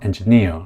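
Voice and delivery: "engineer" with NEER stressed; light "engi", strong "neer" in "engineer"; third-syllable stress. Shown as a demonstration. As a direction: lean on the last syllable of "engineer". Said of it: "세 번째 음절에 강세가 오".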